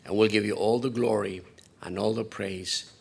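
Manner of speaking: steady, earnest pastoral prayer; closing prayer. Real, not acted. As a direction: pray over the congregation.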